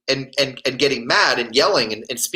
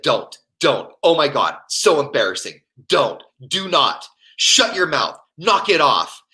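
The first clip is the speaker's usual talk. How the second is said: imitating an embarrassed partner's telling-off; short, separate pleas to stop; mortified scolding. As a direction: scold like you're embarrassed in public. Imitates her scolding him under embarrassment.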